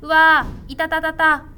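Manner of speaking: loud, high mock yelps of pain; hammed-up ogres in pain. A narrator's reading. Ogres flee the beans, hammed-up yelps. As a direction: whine like beaten ogres, playfully.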